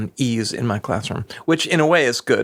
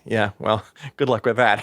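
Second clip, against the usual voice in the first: wry dismissal. Retold or imitated. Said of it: "looked at me like".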